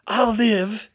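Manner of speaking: weak, hoarse rasp; raspy. A narrator's reading. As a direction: rasp it out painfully. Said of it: "she rasped".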